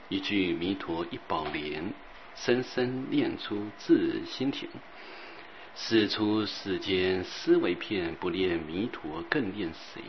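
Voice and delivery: slow, measured verse reading; verse recitation. Acted. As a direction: recite each line with long drawn-out words.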